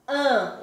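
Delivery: "an" as one nasal vowel "ã"; A with tilde. Shown as a demonstration. Teacher isolating a phoneme, "an" as nasal "ã". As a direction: hold "an" in the nose, no consonant closing it. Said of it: "esse Azinho com tio".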